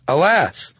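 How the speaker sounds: mock dramatic lament. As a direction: sigh it out like an old moralist. Reading Perrault's moral aloud dramatically.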